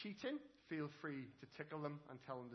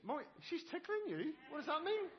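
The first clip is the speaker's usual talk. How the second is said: laughing; 11 semitones higher, 6 dB louder than usual. Real, not acted. Laughing at tickled child.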